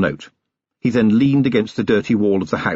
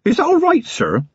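high-pitched, uncertain question; nervously seek the boss's approval; anxious. A narrator's reading. Young constable waiting on his commander's verdict, anxious. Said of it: "Feeney said anxiously".

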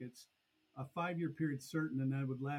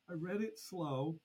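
slowed down; 3 semitones higher, slower than usual. Retold or imitated. Actuary asked him to reread it, slowed down. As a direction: draw the words out a little. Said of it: "It's really slow".

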